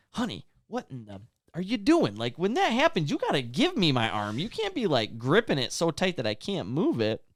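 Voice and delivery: high, swinging emphasis, mildly fed up; retold exasperated scolding. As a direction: pitch swooping up in mock disbelief. Retold scolding of his wife.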